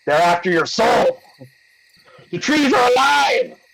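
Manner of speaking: building to a hammy cry; mock horror, rising high; spooky mock alarm. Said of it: "I'm just kidding".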